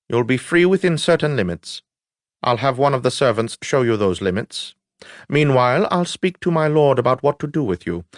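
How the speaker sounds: lightly voiced officer laying down terms; a hint of a measured, formal lieutenant; lieutenant in command, formal. Lieutenant tells the prisoner his limits, lightly voiced formal command.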